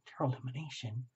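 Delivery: a client whispering a secret to the reader; mock whisper. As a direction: lean in and confide it softly. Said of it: "you're whispering in my ear".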